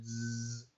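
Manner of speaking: soft buzzing bee sound; a quiet, drawn-out zzz. Shown as a demonstration. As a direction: imitate a bee's buzz quietly. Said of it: "es el sonido que hacen las abejas".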